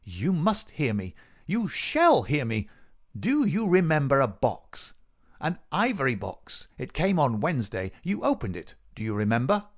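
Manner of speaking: high, urgent, emphatic demand; insistent villain. Acted. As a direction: force a fading man to listen.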